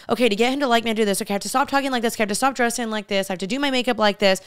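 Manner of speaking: rapid-fire list of self-corrections; hurried inner monologue, lightly acted; frantic self-checklist. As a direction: race through it as retold anxious thoughts. Voicing her own anxious striving thoughts.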